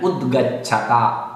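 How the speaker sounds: उद्गच्छता with द cut short, no vowel, and ग full; careful pronunciation. Shown as a demonstration. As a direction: model उद्गच्छता distinctly for students. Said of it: "द हलंत है". (उद्गच्छता में द् हलंत, ग पूरा बोलें)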